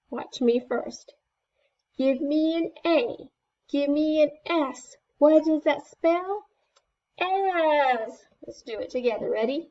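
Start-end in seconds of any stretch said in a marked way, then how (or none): 2.0-8.3 high, bright cheer call; rally the crowd with each letter; cheerleader. Shown as a demonstration. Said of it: "like a cheerleader".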